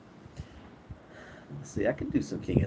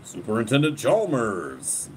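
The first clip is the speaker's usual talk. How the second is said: Skinner impression. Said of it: "I think I used to do Skinner".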